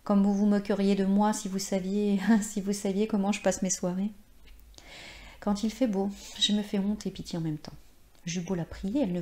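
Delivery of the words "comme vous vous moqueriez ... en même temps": en souriant. Acted. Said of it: "se remit à parler en souriant".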